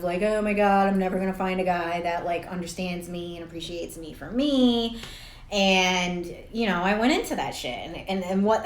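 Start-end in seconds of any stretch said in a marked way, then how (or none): 0.2-5.0 a hint of whiny self-pity; mock-pity herself as the lonely victim. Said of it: "victim-y thing".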